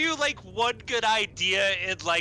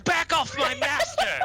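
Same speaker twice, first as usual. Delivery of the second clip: shouted; 6 semitones higher, 4 dB louder than usual. Retold or imitated. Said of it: "Aesop will be like".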